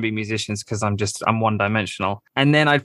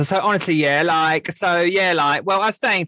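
put-on higher-pitched Essex accent, filler-heavy chatter; Essex impression; 3 semitones higher than usual. Podcast guest demonstrating Essex speech to the host, mock Essex accent. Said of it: "if you watch The Only Way Is Essex".

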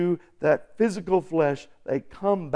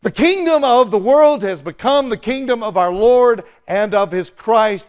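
raised, high-pitched proclamation; loud heavenly voices; 5 semitones higher, 7 dB louder than usual. Acted. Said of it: "loud voices in heaven saying".

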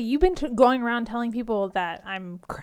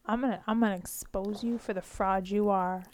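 whispered threat; 4 semitones lower, 6 dB quieter than usual. Acted. Threatening to expose a rival.

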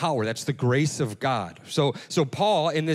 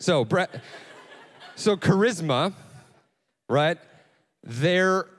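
laughing; slower than usual. Real, not acted. Laughs at own Brad Pitt tangent.

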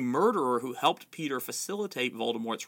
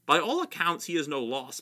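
blustered; 3 semitones higher than usual. Acted. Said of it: "blustered Fudge".

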